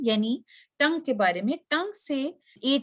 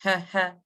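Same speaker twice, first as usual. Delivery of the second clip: breath check; 3 semitones lower, slower than usual. Shown as a demonstration. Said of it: "आप ऐसे तो नहीं करते".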